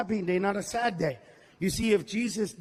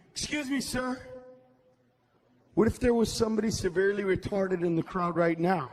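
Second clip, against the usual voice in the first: pissed off lady; 5 semitones lower than usual. Retold or imitated. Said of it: "This lady gets all pissed at me".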